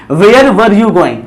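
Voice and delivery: very slow, each word separated; slow model reading. Shown as a demonstration. Teacher reading the sentence slowly for students. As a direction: spell out "Where were you going?" word by word. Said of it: "तो हम लोग क्या पढ़ेंगे इस sentence को?".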